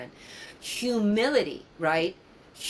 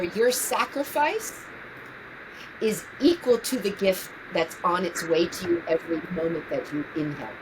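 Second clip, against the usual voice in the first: tender, earnest. Real, not acted. Tender advice to her younger self.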